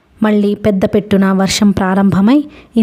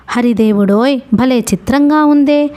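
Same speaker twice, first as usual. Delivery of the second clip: higher, exclaiming in sympathy; lightly voiced old ferryman, astonished; amazed ferryman; 4 semitones higher than usual. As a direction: marvel at the story, then pity them.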